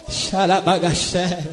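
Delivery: low, slow burst of tongues; slow murmured tongues; speaking in tongues. Real, not acted. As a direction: drop low and pray in tongues slowly.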